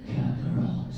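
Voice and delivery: hushed, menacing Kakarot, breathed out; whispered evil voice. Shown as a demonstration. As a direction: whisper the name like a threat. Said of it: "Can you do, like, a low, deep, evil voice".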